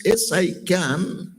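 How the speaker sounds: slow, each word of "Yes, I can" weighed; slow confident affirmation. Shown as a demonstration. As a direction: say "Yes, I can" slowly and firmly, like a vow. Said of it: "have that self-confidence".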